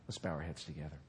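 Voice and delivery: calm, hushed invitation to bow heads and pray; prayerful altar call. Real, not acted. Pastor leading the congregation into prayer, hushed and earnest. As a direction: gently invite the congregation to come to God.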